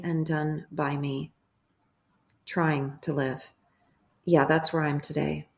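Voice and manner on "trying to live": slow, low, weighted TRYING; slow the phrase down, weight on "Trying"; stress on TRYING. Real, not acted. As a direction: lean on "Trying", drawn out and falling. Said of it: "I stress the word trying".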